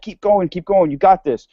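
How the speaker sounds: personal trainer. Retold or imitated. Personal trainer pushing you through the last reps, lightly imitated encouragement. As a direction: urge them on, a hint of a coach. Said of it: "he's like your personal trainer".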